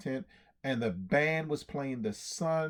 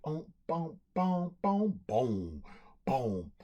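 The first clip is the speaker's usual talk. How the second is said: drum noises; slower than usual. Acted. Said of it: "And the band played".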